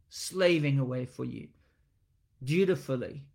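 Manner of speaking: a son listing his years of service with a hint of grievance; mildly sour, put-upon grumble; bitter, resentful complaint. Preacher voicing the elder son's complaint to his father, bitter. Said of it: "Can you hear the tone?".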